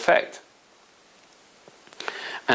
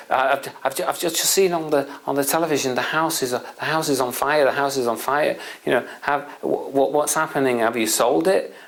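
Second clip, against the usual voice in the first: slightly raised, mildly panicky retelling; panicking father; 3 semitones higher than usual. Retold or imitated. Father rings his son about the house fire, mildly panicking. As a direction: imitate an anxious father repeating himself. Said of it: "he's panicking".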